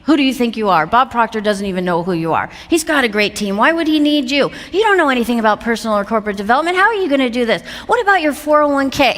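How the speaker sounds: rapid-fire self-doubting questions; challenging inner critic. Retold or imitated. Inner voice doubting her career leap, challenging. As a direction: grill yourself, pushing harder on each question.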